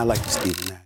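low sultry tone; put-on smooth voice. Real, not acted. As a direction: drop way down, playing it smooth. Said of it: "the tone of the voice, I'm having a very hard time with this morning".

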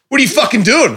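high-pitched snapping bogan partner; mock Australian bogan scolding; angry Australian bogan. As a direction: imitate her bogan outburst. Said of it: "starts talking like an old".

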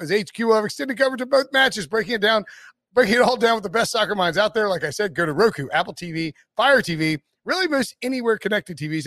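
rushed promo read with no breath; all in one breath. Real, not acted. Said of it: "without taking a breath".

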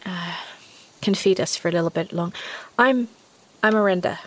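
lightly voiced girl, halting; hesitant young forager. Girl tells a stranger why she is out, hesitantly. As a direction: explain yourself in uneven, tentative bursts.

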